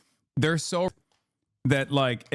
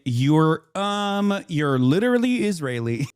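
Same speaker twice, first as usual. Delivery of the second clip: lightly mocking, pitch lifted on "um"; mock pedantic interjection; slower than usual. Streamer once again correcting the Israeli guest, mildly mocking interjection. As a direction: point out the obvious with an awkward "um". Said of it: "I'm gonna once again say".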